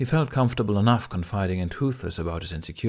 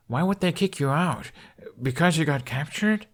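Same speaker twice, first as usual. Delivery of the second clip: higher indignant questioning; 7 semitones higher than usual. A narrator's reading. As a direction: push back in disbelief. Outraged questioning.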